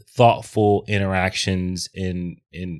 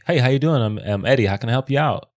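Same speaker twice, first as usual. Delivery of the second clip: customer service voice. Shown as a demonstration. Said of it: "What's your customer service voice?".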